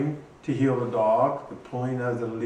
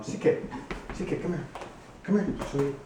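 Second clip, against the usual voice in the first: higher, sweet calling voice; calling the dog; 4 semitones higher, faster than usual. Real, not acted. Owner calling his dog CK over, high and sweet.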